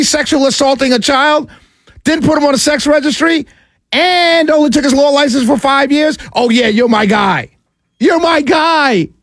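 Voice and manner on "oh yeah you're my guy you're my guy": sarcastic praise. Pretend. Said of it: "sarcastic praise".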